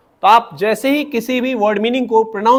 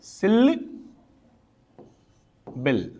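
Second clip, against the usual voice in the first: drawn out slowly; 8 dB quieter, much slower than usual. Shown as a demonstration. Teacher introducing the word to students, drawn out slowly. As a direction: stretch each syllable of सिलेबल very slowly. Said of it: "teacher opens syllable lesson".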